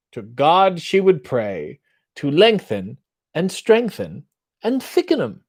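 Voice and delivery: lightly put-on posh British accent, reciting; an American pretending to be British; mock British theatre accent. Reading limericks to the chat in a mock British accent. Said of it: "what is that accent you're doing".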